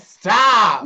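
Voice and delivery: loud, sharp "stop"; shout. Real, not acted. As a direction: yell it to end the noise. Yelling at the noise maker.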